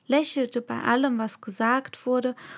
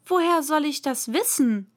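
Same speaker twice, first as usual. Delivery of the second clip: bold; 4 semitones higher than usual. Acted. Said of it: "über ihren Mut wunderte".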